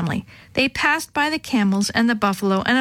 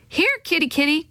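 high-pitched call to a kitty; gentle, lilting animal call; soft coaxing call; 7 semitones higher than usual. A narrator's reading. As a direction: coax a cat over, pitched high. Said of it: "Chris called softly".

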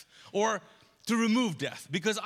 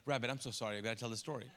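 quiet, lower mock-tender apology; soft apology; 8 semitones lower, 8 dB quieter, much faster than usual. Storyteller apologizing to the dead rabbit, softly. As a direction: gently say sorry to the rabbit.

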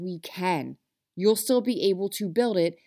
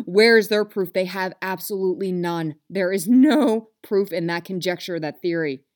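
louder, fired-up challenge; intense; 6 dB louder than usual. Real, not acted. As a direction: push back hard on the doubters. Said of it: "I feel like I'm getting real intense".

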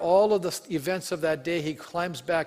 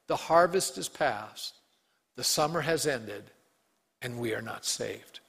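sad; 4 semitones lower than usual. Acted. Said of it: "This is really a sad verse".

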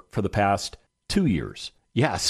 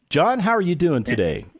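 enthusiastic welcome; 6 semitones higher than usual. Real, not acted. Host welcoming guest on air.

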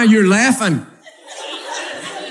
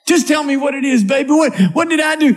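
higher, rising to a mock shout; exasperated wife; 5 semitones higher, faster than usual. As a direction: beg him to say what's wrong. Wife voiced in marital quarrel.

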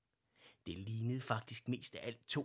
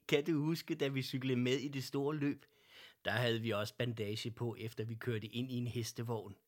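laughing reminiscence; 4 dB louder than usual. Acted. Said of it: "Fru Lindberg grinede".

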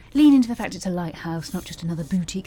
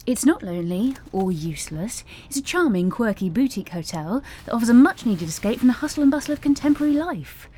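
high, fast advert voice; sales pitch; 5 semitones higher than usual. Retold or imitated. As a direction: pitch it like a hotel ad. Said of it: "Anyway, I told him".

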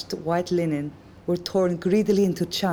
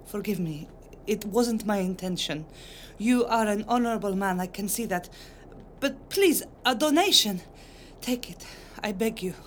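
pleading mother; 4 semitones higher than usual. Acted. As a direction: beg the guard, humbly and anxiously.

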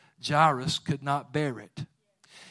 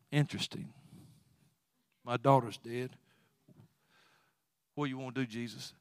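hushed stunned father; 3 semitones lower, 8 dB quieter than usual. Retold or imitated. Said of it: "this man is just going".

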